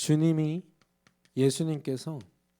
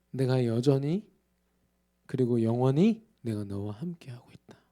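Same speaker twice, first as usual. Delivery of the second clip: whispered reassurance of presence; tender whisper; 3 semitones lower than usual. Acted. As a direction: hush it like a promise in the ear. Tender whispered words of Jesus.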